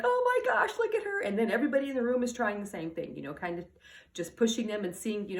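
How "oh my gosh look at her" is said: put-on much higher, gushing over a sassy toddler; high doting baby-talk squeal; adoring coo. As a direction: coo at the little one like everyone in the room. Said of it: "we're like".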